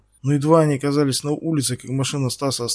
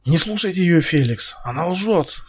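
desperate shout; 4 semitones higher than usual. Acted. Стас кричит Феликсу, что она лжёт. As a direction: shout to be believed. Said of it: "крикнул Стас".

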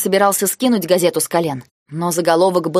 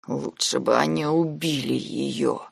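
soft, slow, lower murmur; whispered; 3 semitones lower, 6 dB quieter, slower than usual. A narrator's reading. Broken Nike to Blau, whispered despair. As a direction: breathe it out almost silently. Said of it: "прошептал он".

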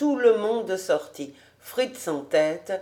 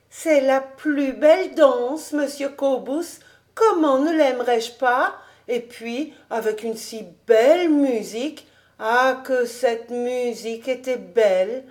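put-on higher, enraptured young girl voice; girlish delight; 5 semitones higher, 3 dB louder than usual. A narrator's reading. Girl praising the dance music, high and enraptured. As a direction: enthuse about it as a delighted girl.

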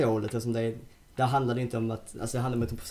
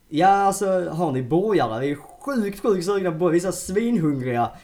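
higher and louder, begging for burgers; desperate hungry pleading; 7 semitones higher, 8 dB louder than usual. Retold or imitated. To the hostess, begging for burgers, loud and desperate. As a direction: beg like you're starving.

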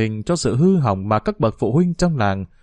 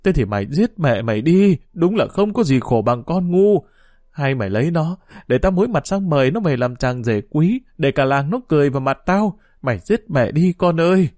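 bitter despair; 3 semitones higher than usual. Acted. Mother despairs at daughter.

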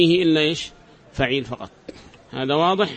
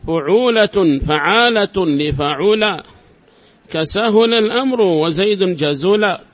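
slow, measured reading of a didactic verse; measured scholarly recital; verse recitation; slower than usual. Acted. Reads the verse aloud.

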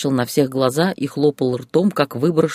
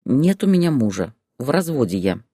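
calm reply. Acted. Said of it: "спокойно ответила Зоя".

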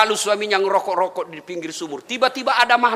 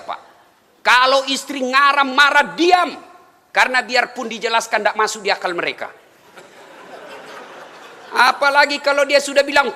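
ordinary delivery

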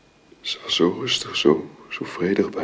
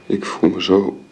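exhausted; 3 semitones higher than usual. Acted. Exhausted grief.

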